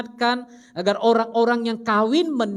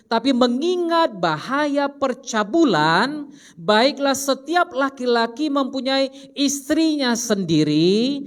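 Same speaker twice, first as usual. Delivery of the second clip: slow scripture reading; 3 semitones higher, slower than usual. Acted.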